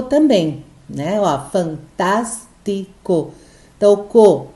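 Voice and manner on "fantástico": "fantástico" very slowly as fan, tás, ti, co; each syllable of "fantástico" on its own, slowly; syllable count demo. Shown as a demonstration. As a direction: count out "fantástico" in four separate beats. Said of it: "o tas é a antepenúltima".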